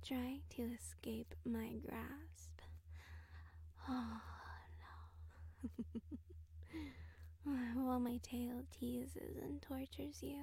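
ordinary talk

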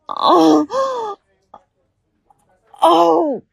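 high loud pained "oh"; loud crying moans. Acted. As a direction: cry out as if hurt. Acted pain in roleplay.

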